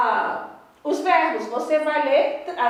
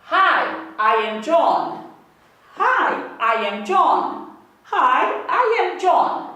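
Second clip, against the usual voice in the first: slow, louder classroom model reading for students to follow; model reading aloud; 5 dB louder, much slower than usual. Shown as a demonstration. Teacher reading a line aloud for students to repeat: slow, loud and clear. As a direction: read it out clearly for the class to echo. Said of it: "lendo comigo sempre".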